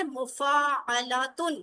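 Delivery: each syllable drawn out slowly; slow teacher model of mufa'alatun; slowly spelled out. Shown as a demonstration. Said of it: "یہ باب کون سا ہے".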